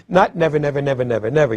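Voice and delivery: each "never" given its own heavy beat; "never" repeated, every one stressed. Shown as a demonstration. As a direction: drive the "never"s back to back. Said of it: "four or five stresses back to back".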